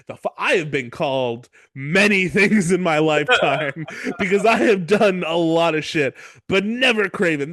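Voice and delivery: emphatic, affronted retort with laughs breaking in; hammed-up offended protest; mock indignation. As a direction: act out being scandalized by an insult. Retold indignant reply to insult.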